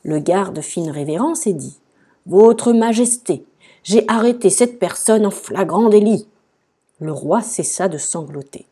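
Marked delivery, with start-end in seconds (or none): 2.3-6.3 loud, higher official announcement; formal guard's report. A narrator's reading. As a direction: announce an arrest to the king. Garde annonçant au roi une arrestation. (annonce forte et solennelle du garde)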